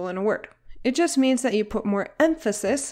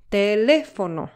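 "teléfono" split into te-lé-fo-no; syllable by syllable. Shown as a demonstration. Teacher counting four syllables for learners, syllable by syllable. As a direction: sound out "teléfono" in four separate beats.

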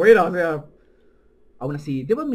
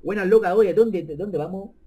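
loud, higher, slowed street-tough cabbie; rough taxi driver voice; 4 semitones higher, 8 dB louder than usual. Acted. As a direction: bark it like a rude cabbie. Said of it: "el taxista es".

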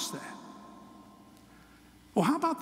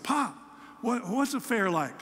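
put-on higher, eager three-year-old voice; excited little grandson; 4 semitones higher than usual. Preacher voicing his grandson asking about the fair, higher eager child voice. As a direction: voice the curious little boy asking his pop.

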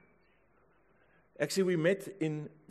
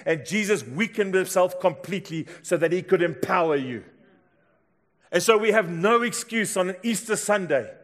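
raised, driving sermon delivery; full-force preaching; 4 semitones higher, 6 dB louder than usual. Real, not acted. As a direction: proclaim it to the whole congregation.

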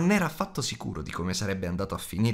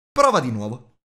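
louder, urgent creature voice; agitated; 7 dB louder than usual. A narrator's reading. Gollum agitated, urging Bilbo to guess again. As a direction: Gollum pressing more agitated than ever. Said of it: "più agitato che mai".

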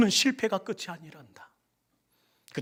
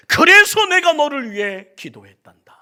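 louder, higher declaration; proclaiming; 8 semitones higher, 14 dB louder than usual. Acted. Preacher voicing Jesus to congregation, loud. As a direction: proclaim it to the whole church.

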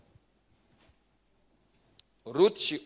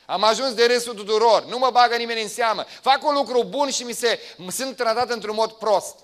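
loud, high complaining inner voice; hurt feelings talking back; voicing the feelings; 7 semitones higher, 8 dB louder than usual. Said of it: "sentimentele astea îți pot spune".

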